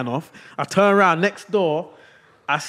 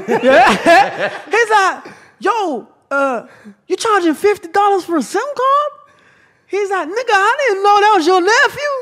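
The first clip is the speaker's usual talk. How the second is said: high, loud, talking through laughter; cracking up mid-story; laughing; 7 dB louder than usual. Real, not acted. Telling friends the punchline, laughing. Retelling while laughing hard.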